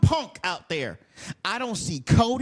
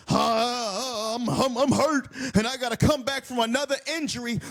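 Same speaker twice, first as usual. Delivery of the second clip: mock whiny injured star; 3 semitones higher than usual. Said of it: "you wanna pretend".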